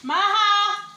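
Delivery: loud high call across the house. Real, not acted. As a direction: shout the names to call them. Calling kids from another room.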